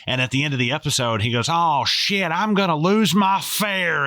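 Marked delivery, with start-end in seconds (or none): 1.5-4.1 high, loud redneck Texas drawl, last words slowed; redneck Texas accent. Retold or imitated. Fair owner's real Texan voice slips out at the end. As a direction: drop the British act and go full Texan. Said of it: "a totally redneck".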